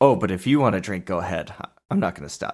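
fast, smug, condescending, superior tone, acted out. Speaker mimics a man's words the next morning about drinking, in a mock-condescending, smug tone. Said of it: "it was so condescending and smug".

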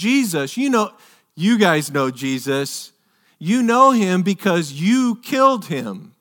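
play-acted wry, ironic, lightly sarcastic jab. Speaker retelling a man's words to a crowd, retelling a tongue-in-cheek line. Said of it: "He says it a little tongue-in-cheek".

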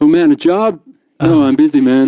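very loud, booming, slow, drawn-out character voice. Voicing the doctor friend Craig Graham on a call: Doug's voice. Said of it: "It's Doug's voice".

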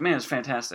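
ordinary delivery

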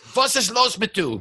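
very high, angry, put-on German accent. Joking with a co-host about how German speakers sound, mock-angry German voice. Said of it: "they sound pissed off all the time".

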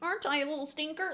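put-on sweet, cutesy voice, pitched high. Retelling how a movie character acts in front of a group: imitating a fake cute tone. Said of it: "It's so fake and cute".

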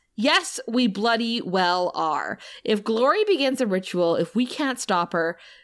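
ordinary delivery

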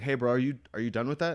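mock faux-friendly, casual passive-aggressive tone. Retelling asking someone at the gym about re-racking weights: retelling own passive-aggressive remark. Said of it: "I did it really passive aggressive".

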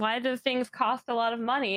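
ordinary delivery

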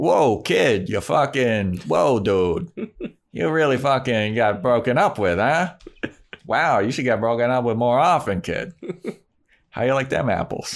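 put-on Boston-New York accent. Imitating how a character talks to a kid, in Faith's Boston-New York accent. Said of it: "It's like Boston by way of New York".

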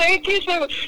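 very high, tearful sobbing voice. Recounting when Levon got in the car, the speaker is imitating him crying. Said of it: "He's like, cries".

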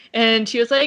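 ordinary talk

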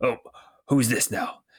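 rough-edged, gruff character voice. Narrating a scene to two listeners as an unseen speaker arrives: gruff voice. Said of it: "you hear that gruff voice say".

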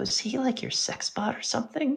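soft, very quiet, hushed whisper. Glancing back at the hut, speaking to a companion, whispering. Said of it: "sort of speaks in a whisper".

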